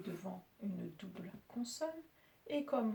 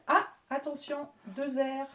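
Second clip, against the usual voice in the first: normal talking voice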